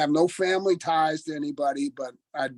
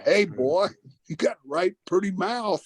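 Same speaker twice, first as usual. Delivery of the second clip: higher-pitched mock backwoods quote; movie backwoods man; 4 semitones higher than usual. Wrestler quoting a guy from Deliverance, mock backwoods voice. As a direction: imitate the creepy man from the woods. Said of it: "And the one guy said".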